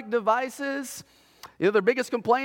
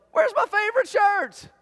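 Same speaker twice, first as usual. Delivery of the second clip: much higher demanding whine; mock whiny yell; 12 semitones higher, 3 dB louder than usual. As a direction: whine it like a teen at her closet. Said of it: "she yells".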